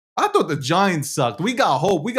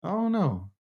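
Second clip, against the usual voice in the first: put-on New York accent; 3 semitones higher, 7 dB quieter than usual. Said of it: "the meanest New York accent".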